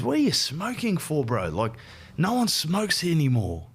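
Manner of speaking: a mate asking why he's still smoking, mock-incredulous and high; mate's incredulous scold.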